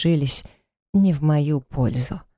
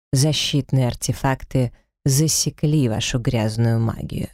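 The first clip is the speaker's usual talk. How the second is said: disgusted; 2 semitones lower than usual. Acted. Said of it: "выплюнул с брезгливостью".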